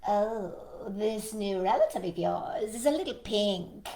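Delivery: lightly voiced raccoon character; a hint of a storybook animal voice. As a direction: play the raccoon passing comment. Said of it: "said the raccoon".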